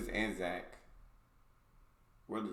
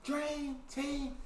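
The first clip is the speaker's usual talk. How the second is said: drawn-out, high shouted intro; hyped greeting; 10 dB louder, much slower than usual. Real, not acted. Host greeting viewers at the top of a video, hyped shout. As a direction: belt out the greeting, stretching each word.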